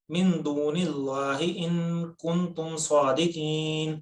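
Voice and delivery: measured chanting recitation; Quran recitation. Shown as a demonstration.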